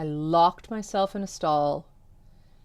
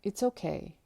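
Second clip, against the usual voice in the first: soft comfort; 3 semitones higher, 6 dB quieter than usual. Retold or imitated. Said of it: "And she said".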